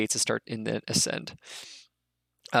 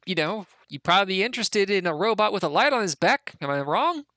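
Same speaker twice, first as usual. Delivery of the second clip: eager goblin; 6 semitones higher than usual. Acted. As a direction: pitch him up like a pushy goblin selling his find. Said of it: "the goblins basically give him the".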